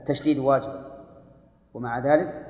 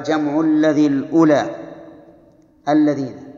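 verse recitation; 7 dB louder than usual. Shown as a demonstration. Teacher reciting the Alfiyya verse to students, loud chanted recitation. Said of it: "فقال".

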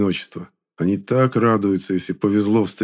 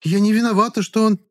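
indignant woman; 14 semitones higher, 4 dB louder than usual. A narrator's reading. Heated quarrel, Klara.

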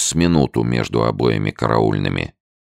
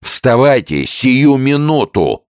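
loud, high, slow bellowed order; sergeant yelling; 13 semitones higher, 6 dB louder, slower than usual. A narrator's reading. Sergeant orders the sick soldier up, yelling loud. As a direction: bark the order from the gut. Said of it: "орал сержант".

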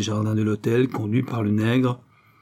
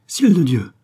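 higher, louder startled cry; hoarse old woman exclaiming; 7 semitones higher, 7 dB louder than usual. A narrator's reading. Old ragpicker recognises her son, hoarse exclamation. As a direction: cry out as a drink-worn old crone. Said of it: "s'écria la vieille femme d'une voix enrouée".

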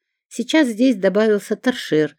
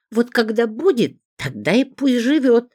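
higher, louder angry retort; angry outburst; 9 semitones higher, 3 dB louder than usual. A narrator's reading. Zinka flares up at Petrov about his bride, high and angry. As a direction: let her anger finally boil over. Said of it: "окончательно разозлилась Зинка".

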